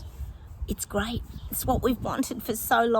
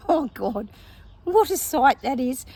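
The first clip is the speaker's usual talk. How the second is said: laughing; 5 semitones higher, 5 dB louder than usual. Real, not acted. Amused by a Thor vision.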